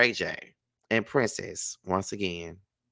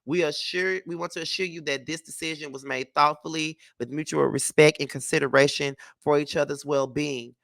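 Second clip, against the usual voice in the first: even, measured reading of a prepared statement; statement read-aloud. Acted. Vlogger reads a couple's divorce statement to viewers, measured reading. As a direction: read it out formally, pausing between phrases.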